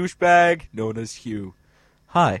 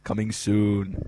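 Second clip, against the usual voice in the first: trailer voice; 4 semitones lower, 6 dB quieter, slower than usual. Acted. Trailer tag line, slow low.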